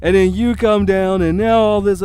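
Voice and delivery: loud, accusing retelling; mimicked confrontation. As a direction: imitate a man arguing, hammering the words. Acting out the man's argument.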